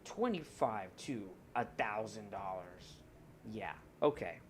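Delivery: low, slow nerdy gamer voice; nerd gamer voice. Real, not acted. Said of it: "I have nerd gamer voice right now".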